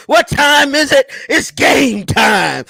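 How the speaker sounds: slow drawn-out hype call; Ray Loser voice. Retold or imitated. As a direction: stretch it like a sports hype man. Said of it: "In my Ray Loser's voice".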